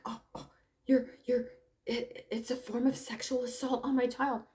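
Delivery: breathless hushed mock horror; mock outraged whisper. Mother clutching pearls, mock whispered outrage. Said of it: "And she's like".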